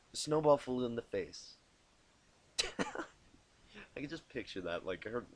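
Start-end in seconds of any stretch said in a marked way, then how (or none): 2.6-3.0 quiet laugh. Real, not acted.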